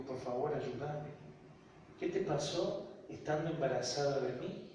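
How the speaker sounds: soft, earnest retold plea; hushed pleading with a pause; quiet plea. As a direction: beg gently for an answer. Retold plea to his mother.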